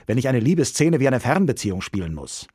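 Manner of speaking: lauter, gereizter Ausruf; schimpfend. A narrator's reading. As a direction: schimpft hörbar empört los. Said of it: "schimpft Romeo". (Romeo schimpft laut über die Abstandsprobe)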